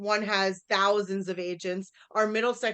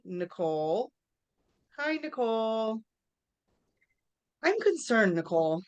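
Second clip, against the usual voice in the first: concerned. Acted. Acted concerned phone call to client.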